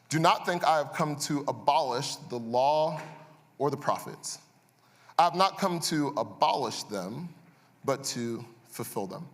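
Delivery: slow, measured Bible reading; scripture reading. Acted. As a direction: read the verse deliberately, weighing each word. Reads scripture aloud.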